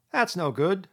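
high, loud scornful dismissal; contemptuous. A narrator's reading. Rat scoffing at his friend's plan, contemptuous. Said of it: "said the rat contemptuously".

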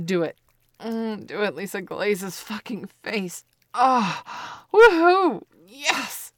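loud, high whooping cheer; excited cheering. Acted. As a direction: cheer her on at full volume. Urging climax, cheering.

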